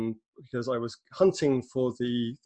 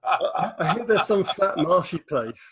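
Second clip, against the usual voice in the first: mock disdain; 9 semitones higher, 7 dB louder than usual. Mock disdain for rival Cambridge.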